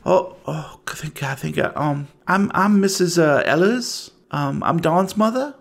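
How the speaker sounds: a hint of anxious small-town woman; worried mother. Game master voices worried mother.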